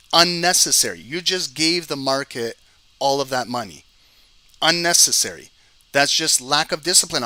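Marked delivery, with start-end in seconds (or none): 0.1-1.0 loud, clipped single-word rebuke; exasperated scold. Real, not acted. Streamer scolding viewers who held losing sells, loud rebuke. 4.6-7.2 loud, clipped single-word rebuke; exasperated scold. Real, not acted. Streamer scolding viewers who held losing sells, loud rebuke.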